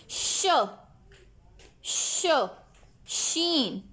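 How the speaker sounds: "श" as a soft, drawn-out hiss; sh sound. Shown as a demonstration. Teacher sounding out "श" for children. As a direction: model the sound "श" for the kids. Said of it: "The sound of S N H is".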